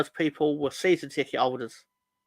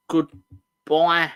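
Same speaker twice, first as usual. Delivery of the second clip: reading a chat message; 2 semitones higher, 5 dB louder, slower than usual. Retold or imitated. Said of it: "from Sam Greenwood".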